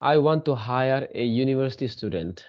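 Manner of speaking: "I want to hire a university student" read slowly, word by word; slow model sentence. Shown as a demonstration. Teacher rereading the corrected sentence slowly for students. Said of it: "ठीक है ना?".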